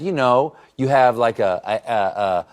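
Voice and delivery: teacher explaining. Retold or imitated. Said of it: "And she said".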